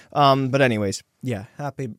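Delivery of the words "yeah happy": put-on "happy" said in a light Irish accent; quick Irish lilt on "happy". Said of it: "I don't know why I did the Irish accent".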